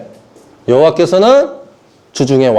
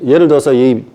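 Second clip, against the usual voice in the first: usual speaking voice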